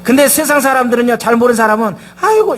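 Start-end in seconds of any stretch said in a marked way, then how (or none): 2.2-2.6 a high, loud mock groan of despair; groaning sigh. Pastor imitates worldly people groaning at hardship. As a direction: let out a hammed-up moan of frustration. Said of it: "이렇게 되거든요".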